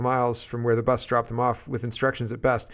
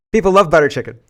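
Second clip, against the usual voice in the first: laughing; 4 semitones higher, 9 dB louder than usual. Real, not acted. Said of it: "like, I'm laughing".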